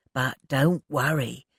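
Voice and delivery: slow and calm; soothing. Acted. Ted calming Elsie, soothing. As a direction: settle her down gently. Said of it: "he soothed".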